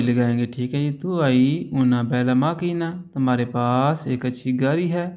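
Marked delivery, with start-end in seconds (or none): 1.0-2.9 slow model sentence. Shown as a demonstration. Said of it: "teacher models Italian sentence slowly".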